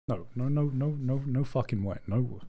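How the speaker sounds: stunned denial. Real, not acted. Missing nomination shock.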